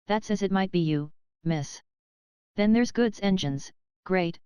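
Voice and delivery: a hint of a country porter explaining engines to a child; old railway porter.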